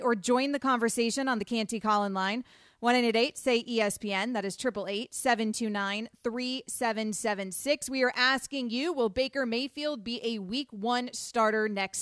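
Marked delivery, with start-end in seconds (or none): none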